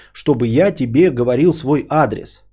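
ordinary talk, nothing marked

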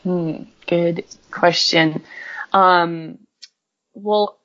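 thinking hmm. Real, not acted. Pausing to consider a question.

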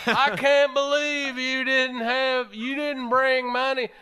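Southern hairdresser voice. Acted. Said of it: "I have to get into character".

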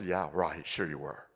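low, muttered sarcasm, yeah right; quiet, skeptical scoff; sarcastic doubt. Retold or imitated. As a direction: scoff at the voice in disbelief. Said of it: "my first thought was a little".

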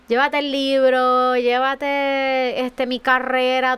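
drawn-out words, handing it all over; retold surrender. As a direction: stretch each item out as you offer it up. Retold surrender in prayer to God.

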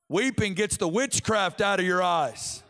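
firm, rising-energy preacher's proclamation; the quote turned into open preaching; preaching declaration. Real, not acted. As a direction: declare it to the congregation. Repeats the quote, now as preaching.

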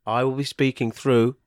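very low, soft and solemn; odd artist with monkey. Pretend. Artist telling interviewer who will speak, low and solemn. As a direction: say it hushed and deadpan.

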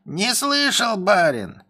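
high, drawn-out dopey voice; dim-witted servant. Acted. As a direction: play innocent and slow. Servant denying.

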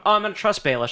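lightly lifted, breezy resolve; mock trusting decision. Sansa deciding to trust Baelish, mock trusting. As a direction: play a fickle change of mind. Acting out Sansa's flip-flopping.

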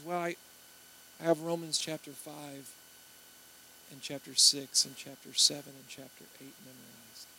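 halting admission with long pauses; imitating a modest student, reluctantly listing; sheepish. Student answering an interviewer about memorized verses, sheepishly. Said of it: "he was kinda sheepish about it".

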